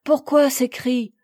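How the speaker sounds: mother anxiously asking her daughter; alarmed questioning. Acted. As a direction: demand to know what happened.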